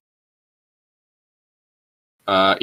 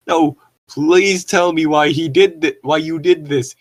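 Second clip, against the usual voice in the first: higher, hammed-up pleading shout; mock shout; 6 semitones higher, 4 dB louder than usual. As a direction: shout the plea, mock-dramatic. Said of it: "he shooted".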